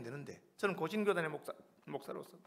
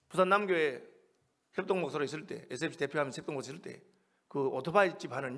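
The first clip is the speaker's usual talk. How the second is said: ordinary talk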